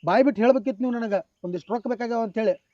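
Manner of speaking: loud, bitter accusation; angry scolding. Acted. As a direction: tear into him for the fraud. Cheated man scolds the director.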